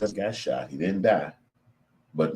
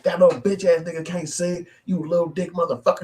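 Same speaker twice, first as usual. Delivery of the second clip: mocking high taunt; 12 semitones higher, 4 dB louder than usual. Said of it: "what a bitch is like".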